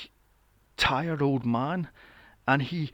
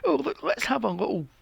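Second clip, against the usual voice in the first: mock marketing pitch; 3 semitones higher than usual.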